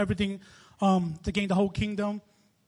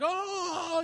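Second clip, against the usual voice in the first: mock wail; 8 semitones higher than usual. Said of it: "people are crying out".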